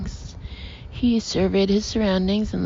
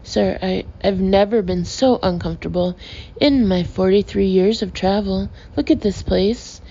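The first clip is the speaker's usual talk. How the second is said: raging. Acted. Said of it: "Clouchard was raging".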